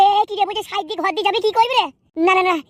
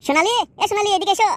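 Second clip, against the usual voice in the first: fond calling; 5 semitones higher than usual. Acted. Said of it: "মনে হচ্ছে তোমার বউকে বলছো".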